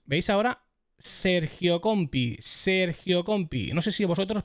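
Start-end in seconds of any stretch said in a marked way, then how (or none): 1.0-3.7 "Sergio Compi" slow, with a long hissed S; eses marcadas. Shown as a demonstration. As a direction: draw out the S in "Sergio". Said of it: "cómo suenan esas S's". ("Sergio Compi" lento, con la ese silbante)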